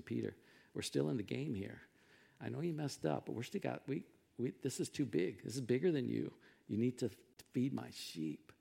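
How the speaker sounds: soft, low, tender acted plea; gentle reassurance. Jesus restores Peter who messed up, gentle reassurance. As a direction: quietly imitate forgiving a friend.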